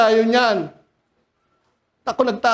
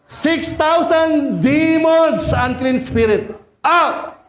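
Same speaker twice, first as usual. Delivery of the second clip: slow, high, booming command to the demons; commanding Jesus; 8 semitones higher, much slower than usual. Acted. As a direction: cast them out with full authority. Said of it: "Ano sabi ni Jesus?". (Jesus na sumisigaw nang mabagal at mataas, nag-uutos sa mga demonyo)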